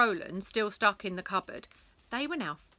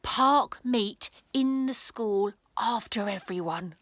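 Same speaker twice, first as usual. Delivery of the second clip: mangled message; 3 semitones higher, 6 dB louder, slower than usual. Acted. Mangled message passed along.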